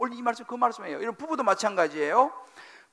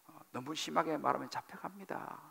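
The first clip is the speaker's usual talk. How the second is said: whisper; 6 semitones lower, 15 dB quieter than usual. Real, not acted. Playful aside to the congregation.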